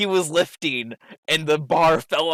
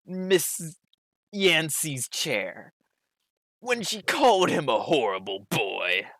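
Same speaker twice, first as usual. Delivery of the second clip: gym bro voice. Acted. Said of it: "He reads it in the most bro voice".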